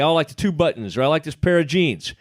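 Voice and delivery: customer quote. Retold or imitated. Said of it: "You say".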